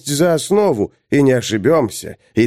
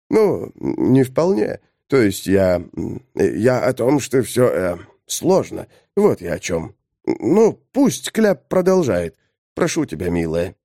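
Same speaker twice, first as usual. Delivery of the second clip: flustered hesitation; 3 semitones lower than usual. Acted. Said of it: "выглядя обеспокоенным".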